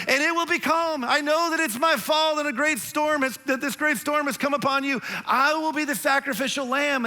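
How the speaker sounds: hammed-up Jonah. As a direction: play Jonah like a Shakespearean hero. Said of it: "this is so Shakespearean".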